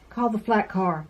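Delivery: gentle storybook read-aloud; reading to children. A narrator's reading. Reads a picture book to children.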